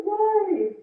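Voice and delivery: high, loud, hurt pleading; a retold, anguished why; pained protest. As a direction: cry out why, as if hurting. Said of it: "I said".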